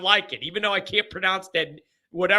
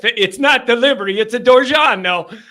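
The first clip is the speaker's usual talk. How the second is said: louder mock TV commercial tagline; quoting a pizza commercial; ad slogan; 6 dB louder than usual. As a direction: belt it like a pizza ad. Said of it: "quoting pizza ad slogan".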